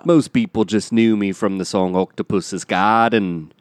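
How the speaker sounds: Liverpool musician voice; a drummer. Acted. Historical figure recalls his fame, Liverpool accent. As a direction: reminisce in a Scouse accent. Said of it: "Oh, that's him".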